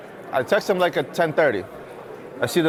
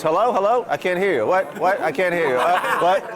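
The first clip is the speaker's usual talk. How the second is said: mock bad connection, a bit higher and calling out; playing dumb on a bad phone line; faking a bad line; 4 semitones higher, slower than usual. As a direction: pretend you can't hear the caller. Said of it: "you pretend like you have no service".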